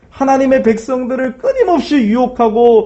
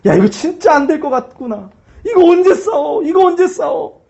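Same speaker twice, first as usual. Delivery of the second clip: taunting Satan; 4 semitones higher than usual. Acted. Satan mocking the church.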